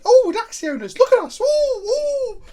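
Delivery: high, hammed-up swanky cooing; sing-song it like a preening pet owner; playful self-mocking fanfare; mock showing off. Mocking self as smug dog owner.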